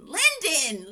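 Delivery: slow, sing-song London, London; playful slow repetition of London; drawn-out name. Shown as a demonstration. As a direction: savour the name London slowly. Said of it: "correcting the name London".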